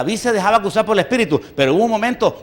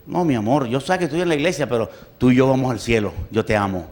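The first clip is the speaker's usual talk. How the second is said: softer, lower, sugary coaxing; mock sweet talk; 5 semitones lower, 3 dB quieter than usual. Preacher mimics soft flattery to a drunk sister. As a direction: coo it like a soft lie. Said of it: "le dices".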